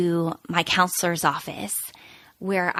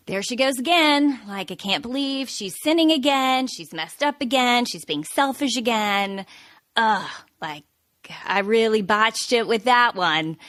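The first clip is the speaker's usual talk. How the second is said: higher, exasperated finger-wagging scold; disapproving God; 4 semitones higher than usual. Retold or imitated. Imagined God complaining about her sinning, exasperated. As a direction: sigh and scold like a let-down taskmaster. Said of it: "waving his finger like".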